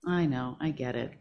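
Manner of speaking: tender loving voice. Retold or imitated. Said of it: "the one who loves us dearly".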